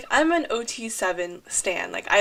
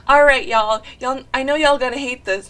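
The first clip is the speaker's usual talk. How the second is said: a rapper's stage call; 8 dB louder than usual. Retold or imitated. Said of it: "he was like".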